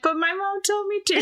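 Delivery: put-on high childish protest; mock child voice; kid voice. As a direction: imitate a little kid whining. Kid's voice in retold scene.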